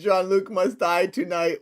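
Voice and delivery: imitating a solemn villain's decree; lightly hammed-up melodramatic declaration; mock proclamation. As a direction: declare it like a staged pronouncement. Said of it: "what a proclamation that is".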